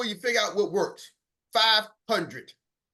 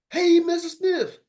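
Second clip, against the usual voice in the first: much higher, slow and louder; high greeting variant; 11 semitones higher, 3 dB louder, slower than usual. Shown as a demonstration. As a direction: stretch it up high. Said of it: "start changing up and everything".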